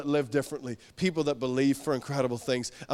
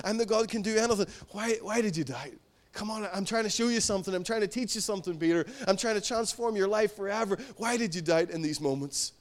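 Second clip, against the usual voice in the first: Jesus speaking; 3 semitones higher than usual. Acted. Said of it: "He's alluding back to".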